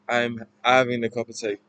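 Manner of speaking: lightly done Cockney, H dropped in "having"; practised Cockney phrase; Cockney accent. Shown as a demonstration. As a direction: attempt a Cockney accent, "tea" as tay. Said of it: "talking in this accent".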